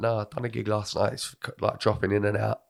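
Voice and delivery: hoarse from a cold; rough, worn-out voice. Real, not acted. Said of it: "explain this gravelly voice".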